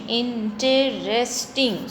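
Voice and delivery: "interesting" said slowly as in-te-rest-ing; slow syllable split. Shown as a demonstration. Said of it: "So four syllables are there".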